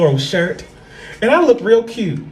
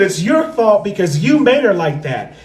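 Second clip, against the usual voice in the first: mock scolding mom. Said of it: "And she said".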